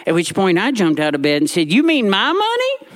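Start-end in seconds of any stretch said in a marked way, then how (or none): 1.7-2.9 high, rising, alarmed question; alarmed boy. Retold or imitated. Boy jumping out of bed to ask, high and alarmed. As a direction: jolt up in a high panic.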